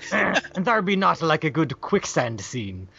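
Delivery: slow, soft pirate line; lightly voiced pirate mode. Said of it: "I am stuck in pirate mode".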